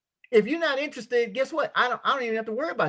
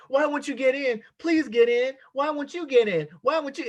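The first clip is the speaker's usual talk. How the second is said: higher, pleading mock beg; begging recruiter; 5 semitones higher than usual. Recruiter begging prospects to join, pleading. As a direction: whine like a desperate recruiter. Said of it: "we say".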